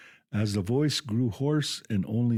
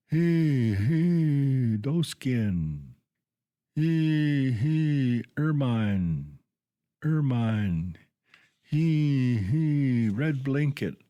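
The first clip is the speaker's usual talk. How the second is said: gruff coarse wail; 4 semitones higher, much slower than usual. Acted. Old toad mother faking a Dakota mourning cry to please the boy, gruff coarse wail. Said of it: "In a gruff, coarse voice, she broke forth".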